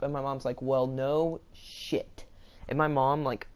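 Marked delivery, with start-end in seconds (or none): 0.6-2.2 imitating an exasperated mom, very slow; retold angry sarcasm. Mom answering the girl at the counter, angrily sarcastic. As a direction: drag out the words in mock exasperation. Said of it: "she, she got angry".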